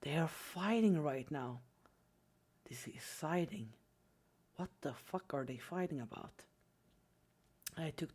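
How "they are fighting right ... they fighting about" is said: hushed, half-whispered gawking; low, very soft, secret running commentary; sneaky little goblin. Retold or imitated. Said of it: "I became like a little goblin".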